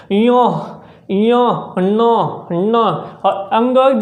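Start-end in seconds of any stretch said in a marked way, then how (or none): 0.1-2.8 each nasal syllable said slowly, air through the nose; teacher models इय and न with clear nasal resonance; nasal sound demo. Shown as a demonstration. Teacher showing students nasal sounds, drawn-out nasal demo. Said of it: "आप जैसे बोलेंगे".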